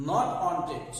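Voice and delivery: "wanted" with an e sound in the last syllable; wrong "wanted" ending. Shown as a demonstration. Teacher warns viewers of a common error, "wanted" said with -ted. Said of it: "কিন্তু viewers এটি একশো percent ভুল".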